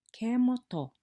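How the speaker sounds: high, loud call, "Ke mo ga"; lively teacher calling to students; call-and-response teacher call. Shown as a demonstration. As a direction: call out the prompt to the class. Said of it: "you say, I say".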